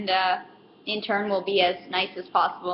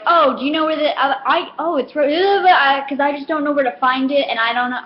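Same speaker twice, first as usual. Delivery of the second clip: higher, louder flustered mimicry; flustered customer; 4 semitones higher, 4 dB louder than usual. Mimicking a confused customer asking for help, flustered higher voice. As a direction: play the helpless rambling shopper.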